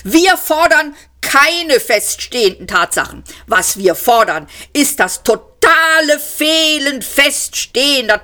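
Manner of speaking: high, loud, hurried rant; breathless shouting. A narrator's reading. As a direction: rant without pausing for breath. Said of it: "kaum Zeit, Atem zu holen und schrie". (hohe, laute, atemlose Tirade)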